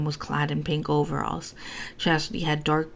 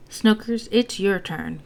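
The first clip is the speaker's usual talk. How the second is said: higher, louder doting coo; 5 semitones higher, 4 dB louder, slower than usual. A narrator's reading. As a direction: coo at him like a pet name to a baby. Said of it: "cooed Ma".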